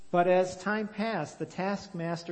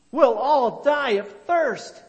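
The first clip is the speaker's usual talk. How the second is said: higher, louder, slow despairing wail; desperate cry; 8 semitones higher, 10 dB louder than usual. A narrator's reading. Thirsty villagers despair to Elzevir, slow wailing cry. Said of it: "they cried".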